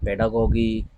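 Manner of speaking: "पेडागोगी" ending on a hard g, GO-gee; heavy, drawn-out "पेडागोगी" with two hard g's; common mispronunciation. Shown as a demonstration. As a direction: say "पेडागोगी" slowly as pe-daa-go-ghee. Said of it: "इस तरीके के भारी भारी word".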